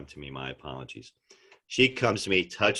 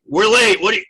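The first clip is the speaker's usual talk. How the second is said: loud high snapping yell; hammed-up impatient yell; mock yell; 12 dB louder than usual. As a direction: snap at her in a rush. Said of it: "instead of being all like".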